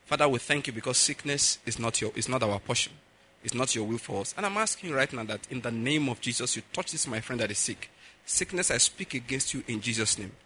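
low, soft, unforced praying; simple prayer. Shown as a demonstration. Showing listeners how to pray, quiet simple prayer. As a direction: pray plainly and quietly, without any show. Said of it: "Let me tell you how to pray".

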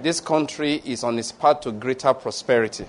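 measured, solemn benediction; deliberate prayer cadence; pastoral prayer. Real, not acted. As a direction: pronounce a scripture blessing in even phrases. Continues benediction.

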